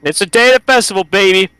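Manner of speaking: relaunch the line with full showman energy; hyped retake. Shown as a demonstration. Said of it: "Do you wanna restart?".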